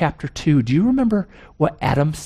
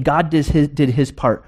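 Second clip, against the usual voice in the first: proud boast; slower than usual. Retold or imitated. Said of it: "She's saying".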